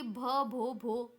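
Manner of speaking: stuttering on भ and भो, stuck on the first sound; a shy girl stammering over her own name. Acted. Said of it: "यानी वो थोड़ा हकला के बोलती है". (हकलाते हुए)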